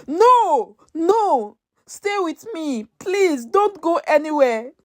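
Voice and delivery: high pleading cry, voice straining; a hint of tearful desperate pleading. A narrator's reading. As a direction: beg her friend not to die. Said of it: "Ngozi cried".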